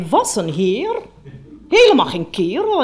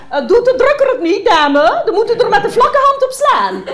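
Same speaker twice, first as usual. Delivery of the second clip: much higher, sing-song shop voice; mock the saleslady, pitched up high; fawning saleswoman; 12 semitones higher, 4 dB louder than usual. Mother voices a saleswoman to daughter.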